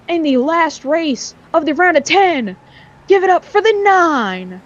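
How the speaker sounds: commentator's winner announcement with swooping stresses; race result announcement. Real, not acted. Commentator sending the nine to victory lane, rousing announcement. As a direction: announce the finishers, building to a high, rousing cheer.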